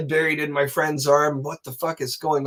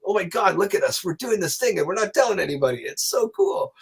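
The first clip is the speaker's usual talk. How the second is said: giddy secret thrill; 4 semitones higher than usual. Retold or imitated. Giddy secret excitement, told in secret.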